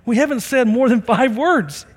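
high-pitched mock disbelief; a hint of surprised disbelief. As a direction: act amazed, half joking. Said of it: "I'm like".

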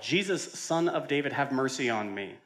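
a touch of a beggar's cry; calling out. Acted. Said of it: "He called out".

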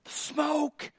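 high, breathless awestruck gasp; mock-terrified high voice; weird dude. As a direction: play the spooked youth-group kid seeing a demon in the smoke. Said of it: "weird dude that would always go".

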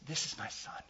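soft whispered words of pride; tender fatherly whisper; proud whisper. Retold or imitated. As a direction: whisper it like a father holding his child. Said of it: "with pride in his voice ... in a whisper".

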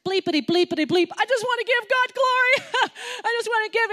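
high, loud parody of a swearing player praising God; mock cursing player. Preacher mocks players who curse then thank God. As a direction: bleep the curses, then gush. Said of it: "as they curse".

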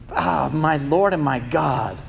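slow, hushed and reverent; bow down in the words, slow and soft; humble awe. Acted. Thomas answering Jesus with hushed, humble awe. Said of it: "his response is this radical humility".

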